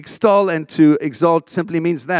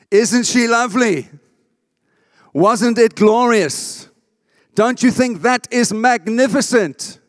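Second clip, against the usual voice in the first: delighted gushing praise; 6 semitones higher than usual. Acted. Acted examples of spontaneous praise.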